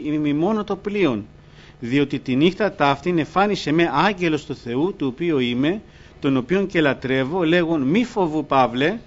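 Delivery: a touch of solemn scripture reading. Acted. Reading Paul's words to the congregation, mildly solemn. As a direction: read Paul's words out, measured.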